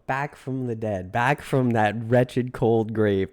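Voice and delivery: slow, hammed-up spooky proclamation; milk the gothic return slowly; a hint of a ghost back from the grave; mock dramatic.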